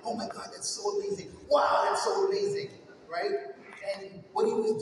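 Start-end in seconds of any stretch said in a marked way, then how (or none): 0.1-2.7 breathless wow, pitch leaping up; childlike amazement. Retold or imitated. Kids marvel at the stepfather's carpentry, awed and excited. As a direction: gush like an awed kid. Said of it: "We were like".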